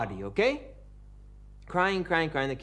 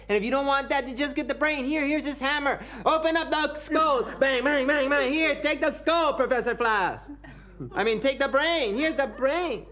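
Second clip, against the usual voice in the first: high, loud gleeful pitch; manic urging; 11 semitones higher, 4 dB louder than usual. Acted. Student urges professor to keep the brain, high gleeful urging. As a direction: sell the gruesome idea eagerly.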